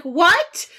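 high, incredulous retort, slowing down; acted disbelief. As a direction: spell it out slowly in high-pitched disbelief. Acts out her shocked reaction.

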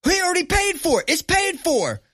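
high, loud disbelieving voice; mock staff member baffled by the order; stunned worker. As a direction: sound like you doubt the receipt. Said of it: "somebody goes".

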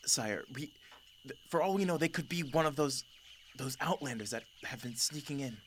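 lightly voiced lioness urging caution to her ruler; female lion objecting. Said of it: "the female lion goes".

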